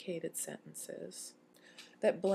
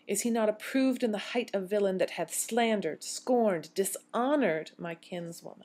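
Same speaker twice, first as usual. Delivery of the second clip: indignant Beatrice; 5 dB louder than usual. Acted. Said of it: "how strongly Beatrice feels".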